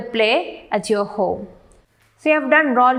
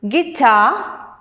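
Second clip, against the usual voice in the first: "guitar" with the weight on TAR; stress on second syllable; 3 semitones higher than usual. Shown as a demonstration. Teacher reading words to students, "guitar" stressed on TAR. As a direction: say "guitar" as gui-TAR, rising at the end. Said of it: "stress on the second syllable".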